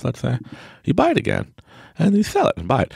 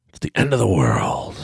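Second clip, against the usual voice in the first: mock doom shout; 2 semitones higher than usual. Mock alarm over world news.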